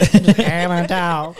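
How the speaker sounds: slow, drawn-out country twang; laughing imitation of country speech; mock country accent. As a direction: tease with an exaggerated country drawl. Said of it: "You're not country at all".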